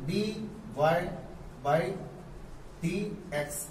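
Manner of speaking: symbol by symbol with pauses; teacher spelling out d y by d x; slow spelled-out reading. Shown as a demonstration. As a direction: dictate it slowly. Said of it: "ऐसे पढ़ते हैं".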